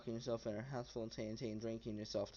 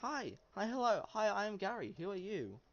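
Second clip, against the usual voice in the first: goblin voice; 9 semitones higher than usual. Acted. Goblin Gary greets the stranger in a high squeaky shout. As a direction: squeal it like an excited little goblin. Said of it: "Goblin says".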